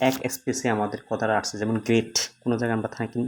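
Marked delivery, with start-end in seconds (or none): 1.8-2.1 "গ্রেট" said in one go, without stopping; one unbroken syllable. Shown as a demonstration. Teacher showing students a one-syllable word, "গ্রেট" in one unbroken beat. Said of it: "থামি নাই".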